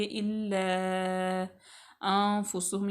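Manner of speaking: अनफुसहुम with the noon hidden nasally before fa; ikhfa noon. Shown as a demonstration. Teacher shows the ikhfa rule, slow careful reading. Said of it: "इख्फा का कायदा".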